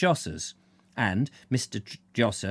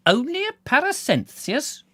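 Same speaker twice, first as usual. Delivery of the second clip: incredulous echo, voice leaping much higher; shaken disbelief; 4 dB louder than usual. Acted. Doctor echoes Bill's excuse, shaken and incredulous. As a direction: repeat it as if you can't believe it. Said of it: "He was obviously shaken".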